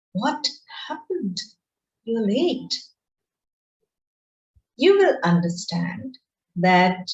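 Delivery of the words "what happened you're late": higher, half-whispered worried question; concerned. Shown as a demonstration. Teacher demonstrating a concerned tone to students, higher and hushed. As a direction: ask gently, worried for them. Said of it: "I'm concerned about the person".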